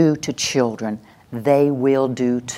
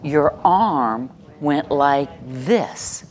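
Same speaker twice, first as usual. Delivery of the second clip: slow gentle noticing; much slower than usual. Shown as a demonstration. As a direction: describe the movement slowly to calm them. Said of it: "And you would say".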